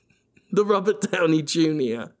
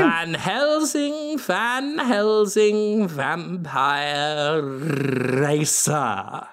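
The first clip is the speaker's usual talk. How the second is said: dramatic slow announcement; much slower than usual. Acted. Dramatic self-introduction.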